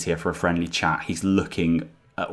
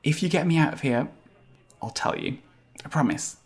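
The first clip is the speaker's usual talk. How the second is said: bargaining tiny hamster; 9 semitones higher than usual. Acted. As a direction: plead for rescue in a small high voice.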